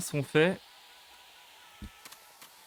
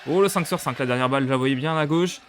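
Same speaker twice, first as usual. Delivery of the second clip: excited; 5 dB louder than usual. Real, not acted. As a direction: burst out, thrilled with the result. Celebrating a clean shooting round. (joie réelle, plus aigu et plus fort)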